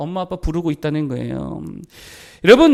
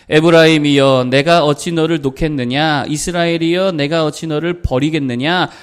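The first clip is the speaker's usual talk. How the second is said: scripture reading; 3 semitones lower, 4 dB louder than usual. Acted. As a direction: draw each phrase out for the congregation. Reads scripture aloud.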